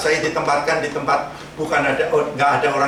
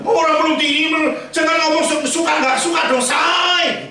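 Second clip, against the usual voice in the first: much higher, louder coaxing lady voice; imitating the pushy wife; 12 semitones higher, 4 dB louder than usual. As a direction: play her brushing off the husband, sweetly bossy.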